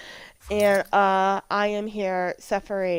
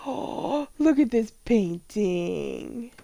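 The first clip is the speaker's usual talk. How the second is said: gasp of delight; much slower than usual. Real, not acted. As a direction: gasp at the painting in wonder. Gasps at a Sims painting.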